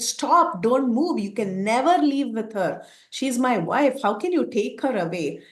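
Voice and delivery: a grief-stricken husband commanding the demon to stop, mildly heated; angry command. Acted. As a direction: order the demon to stop, a touch of outrage. Rama confronts demon taking wife.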